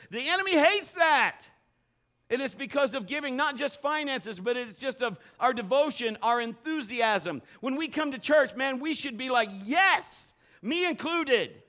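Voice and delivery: loud, high preaching build with "Yes" shouted; rally the church, pushing the voice up and out; full-force preaching. Acted. Preaching climax.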